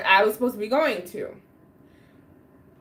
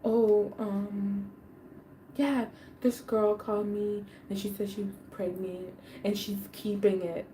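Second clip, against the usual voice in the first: much softer, timid mock mumble; mock mumbling ex; 3 semitones lower, 9 dB quieter than usual. Imitating her ex admitting it, much softer mumble. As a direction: mumble it sheepishly. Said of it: "He's like".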